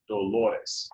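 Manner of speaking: "Dolores" stressed on the middle syllable, do-LO-res. Shown as a demonstration. Teacher confirming the rule, "Dolores" stressed on LO. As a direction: let the second-to-last syllable of "Dolores" carry it. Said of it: "second to last that gets it".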